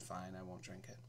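soft resigned mumble; passive. Retold or imitated. Contestant passively gives up on the water. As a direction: give in quietly. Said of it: "I just passively said".

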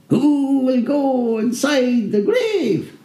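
high, slow eerie imp; drawn-out ghostly demon question. Acted. Muffled demon voices.

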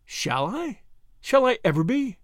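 terrified. A narrator's reading. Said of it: "A terrified look swept".

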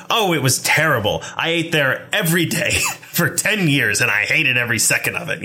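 lightly voiced old New York diner lady, laughing through it; a hint of a grumbling old woman. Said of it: "I feel like an old woman, like an old New York woman at a diner".

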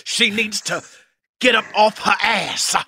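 lightly preachy sermon cadence; rally the congregation, measured; preacher voice. Pretend. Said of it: "All right, Reverend".

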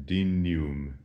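"dignum" as DIN-yoom, GN like canyon; soft GN. Shown as a demonstration. Latin teacher repeating "dignum" as DIN-yoom. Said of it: "the way that we would say in English, canyon".

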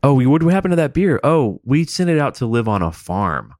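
high, bright mock parental voice; mock parent excuse. Parent fibbing to a kid about the beer, mock cheery. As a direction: fake reassuring parent.

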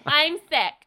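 hammed-up sick line; sick wife voice. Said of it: "she's just like".

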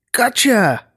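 high, triumphant giant cry; high-pitched gleeful boom. A narrator's reading. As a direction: boom it out on catching them. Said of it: "it boomed".

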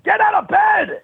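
very high hollered wake-up order; nagging sun. Acted. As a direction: rouse a sleeper with a high holler. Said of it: "every day it's like".

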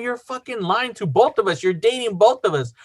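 high-pitched accusing retort, not shouted; retold anger. Boyfriend confronts cheating girlfriend on the phone, retold anger. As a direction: re-enact a mad accusation without raising volume. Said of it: "I was mad".

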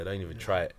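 hushed whispered warning. Real, not acted. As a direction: whisper it like a secret. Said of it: "why you whispering?".

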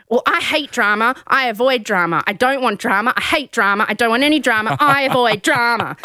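insistent imitation of a drama denier; mildly hammed-up denial; mock protesting. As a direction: protest too much, hammering each repeat. Mimicking contestant protesting too much.

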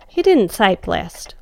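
plain reading voice

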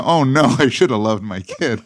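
hammed-up wail of parental regret; mock regret. Parent realizing the theory was wrong, loud mock regret.

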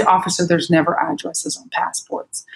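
mildly softened, polite correction; understated, kind reassurance; kindly. Retold or imitated. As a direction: explain it gently to an officer. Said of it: "I said it very kindly".

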